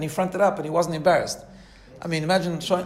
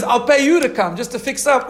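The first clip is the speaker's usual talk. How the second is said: excited; 7 semitones higher, 7 dB louder than usual. Retold or imitated. Organizer's eager offer in retelling.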